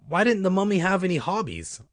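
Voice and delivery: high, put-on riddle voice; joke setup. A narrator's reading. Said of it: "Uncle Ben asked".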